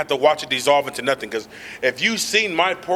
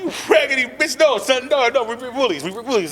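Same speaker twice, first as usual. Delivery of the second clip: laughing scold; 6 semitones higher than usual. Retold or imitated. Retold scolding son, laughing.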